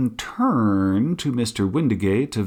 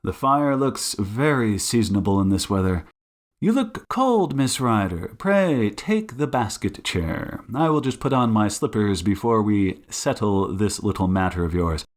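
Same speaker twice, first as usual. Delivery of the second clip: genial detective host, lightly voiced; Sherlock Holmes; 2 semitones lower than usual. Detective seating nervous guest by fire, genial and measured. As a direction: settle the guest with easy courtesy.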